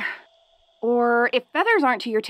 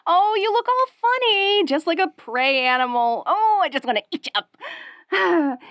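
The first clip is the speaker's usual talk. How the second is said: bubbly; 5 semitones higher than usual. Acted. Laughing at human in mask.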